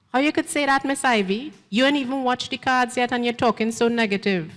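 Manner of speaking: indignant protest. Acted. Young woman protesting Miss Ivy's verdict, high and hurt. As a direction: push back at the old lady, hurt.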